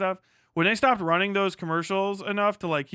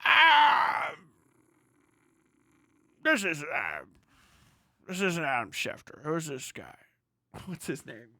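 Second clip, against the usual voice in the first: mock channel surfer; 2 semitones lower than usual. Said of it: "they were like".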